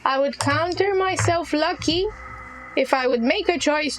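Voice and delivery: a hint of the ancient being; lightly voiced crackling Venoris. Venoris bargaining with the captive, lightly crackling. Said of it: "the old crackling voice of Venoris".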